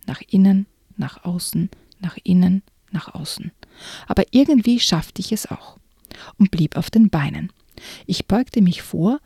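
hushed, suspenseful reading aloud; story narration. A narrator's reading. Narrator reading a spooky book excerpt to the listener, suspenseful. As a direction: read it like a creepy tale, drawing them in.

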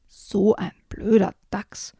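whispered, slow muttered thought; thought aloud. Acted. Raccoon thinks about the rude badger, slow whisper. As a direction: whisper it to yourself, slowly. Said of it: "dachte der Waschbär".

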